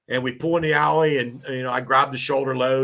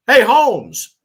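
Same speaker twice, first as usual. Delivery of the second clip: loud, higher call across the alley; hollering for attention; 7 semitones higher, 9 dB louder than usual. Retold or imitated. Neighbor on the porch calling to the firefighter, loudly. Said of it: "I keep hearing".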